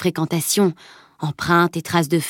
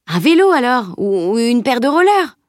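put-on higher, pleading boyish pestering; insistance plaintive; 5 semitones higher, 4 dB louder than usual. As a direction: keep pestering, hopefully. Boy pesters friend after no answer. (garçon qui insiste, un peu geignard)

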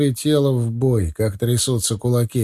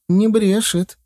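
eager interjection; 8 semitones higher, slower than usual. A narrator's reading. Valka suddenly butts in.

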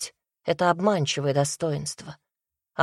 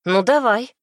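mocking; 5 semitones higher, 6 dB louder than usual. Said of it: "проговорила немного насмешливо".

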